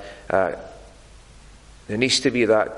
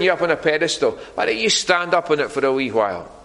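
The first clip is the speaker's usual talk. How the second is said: higher-pitched coaxing tempter; the devil; 6 semitones higher than usual. Acted. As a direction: coax him temptingly in a raised, lilting voice. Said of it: "the devil was whispering in John's ear".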